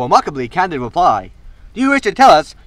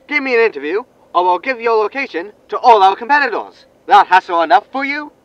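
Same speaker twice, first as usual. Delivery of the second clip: higher, louder threat in a sly newsman voice; smug reporter blackmail; 4 semitones higher, 4 dB louder than usual. Acted. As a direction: lean on him with a smug threat. Reporter threatens over comms.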